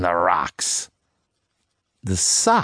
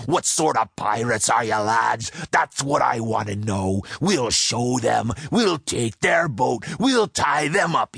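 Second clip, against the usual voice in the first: mild mock roar; 2 semitones higher than usual. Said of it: "he roared".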